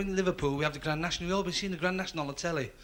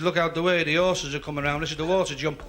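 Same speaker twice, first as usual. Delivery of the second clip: Scouse shout; 4 dB louder, faster than usual. Acted. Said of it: "This Liverpool fella said".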